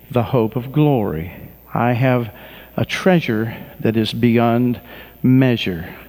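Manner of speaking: slow, measured prayer lead; congregational prayer. Acted. Pastor leading people in prayer, slow and earnest. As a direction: lead them line by line.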